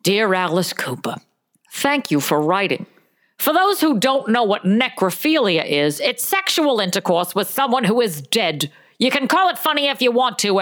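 measured, prim read-out of a reproving reply; advice columnist's letter. Acted. Host reading a columnist's reply to a rock singer, measured reproof.

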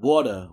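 low-pitched New York "water"; "water" with a New York "waw" vowel; New York pronunciation of water. Shown as a demonstration. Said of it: "New Yorkers say water weird".

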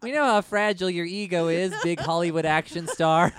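teasing sarcastic jab; mock sarcastic. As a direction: tease him with fake sympathy. Teasing mock address to star.

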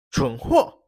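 a short, scornful curse; contemptuous insult. Acted. Prince cursing the baron with contempt. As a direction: spit it out with scorn. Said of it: "轻蔑骂了一句".

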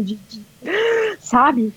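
choked up, words failing; real tears. Real, not acted. Woman recalling her marathon finish, breaking into real tears. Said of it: "eu fico tremendo".

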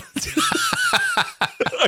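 squealing high laugh; high laugh burst. Real, not acted.

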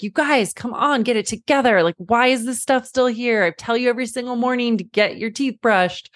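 put-on half-hearted lecture of the kids; mild mock scolding. Mother to her kids who won't get ready, mild mock scolding. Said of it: "launch into them with the discipline of".

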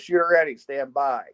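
range officer call. Retold or imitated. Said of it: "and he goes".

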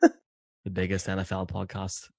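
slow, deliberate praise with faint menace; vaguely sinister. Real, not acted. Producer flattering the hosts, vaguely sinister and slow. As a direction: drag out the compliment until its sincerity is in doubt. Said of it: "something vaguely sinister about the way you said".

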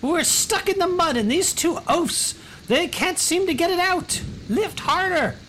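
very high falsetto lady; exasperated noblewoman. Acted. Noblewoman explains the stuck cart and orders men, exasperated falsetto. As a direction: complain shrilly, then order them about.

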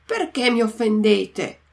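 a touch of mock fury, understated; lightly indignant old man; enraged. Geppetto turns on the carpenter, mildly enraged. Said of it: "gli disse imbestialito".

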